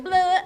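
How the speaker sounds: mock blurting "blah"; loud, comic splurge of noise; spilling-out noise. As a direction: blurt it like words pouring out. Imitates spilling everything out.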